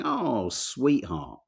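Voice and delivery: very slow, sighing "Oh, sweetheart"; drawn-out granddad sigh. Retold or imitated. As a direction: stretch it out like a tired old man. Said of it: "He was going".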